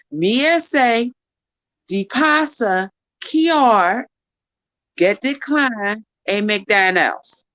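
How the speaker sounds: learner's slow, careful patois try; Jamaican patois try. Pretend. Learner retrying the patois line for the teacher. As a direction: work slowly through the patois line. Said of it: "let's try it one more time".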